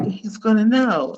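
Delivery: lightly put-on Miami voice; a hint of Miami accent. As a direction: say it with a touch of Miami. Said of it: "in my Miami voice".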